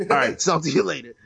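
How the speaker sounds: lightly slurred mock mumble; mumbling Mushmouth. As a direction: swallow the words like a mumbler. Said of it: "Mushmouth or something like that".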